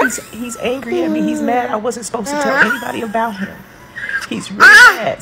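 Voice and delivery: high-pitched imitation of a panicked child; frantic. Daughter telling her mother he's angry, frantic. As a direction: blurt it high, as a terrified child would. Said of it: "she was really, like, frantic".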